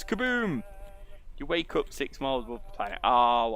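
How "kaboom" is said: high-pitched spoken boom; mock explosion. A narrator's reading. Narrator as everything explodes, mock explosion. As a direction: draw out a cartoonish bang.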